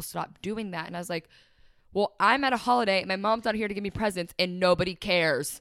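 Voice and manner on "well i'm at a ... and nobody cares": upset outburst. Retold or imitated. Telling her friend how she felt at the holidays, loud and hurt. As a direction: blurt it out like nobody listens.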